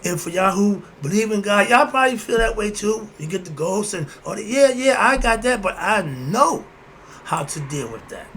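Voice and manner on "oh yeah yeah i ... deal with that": mock confident believer. Mocking believers who dismiss ghosts.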